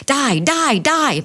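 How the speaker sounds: high-pitched gamer's battle cry; high, excited cry imitating a boy; mock scream. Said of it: "he screams".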